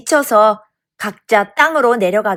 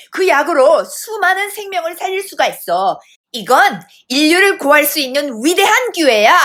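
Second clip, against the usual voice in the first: rousing speech, raised pitch; TV orator; 4 semitones higher than usual. A narrator's reading. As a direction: proclaim it like a grand public speech. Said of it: "티비에 나오는 웅변과 같았습니다".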